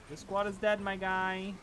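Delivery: high put-on announcer voice; man down shout. Repeating with mock voice.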